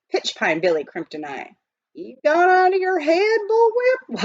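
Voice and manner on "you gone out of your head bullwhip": high, loud astonished outburst; can't believe what he hears; incredulous. A narrator's reading. Billy astonished at Praiseworthy, high loud disbelief.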